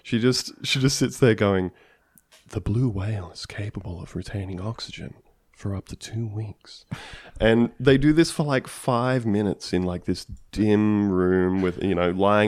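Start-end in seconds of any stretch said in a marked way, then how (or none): 2.5-6.8 very hushed, soft, soothing, calming reading voice. Describing a woman reading facts aloud to people lying in bed, in a really soothing voice. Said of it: "in a really soothing voice".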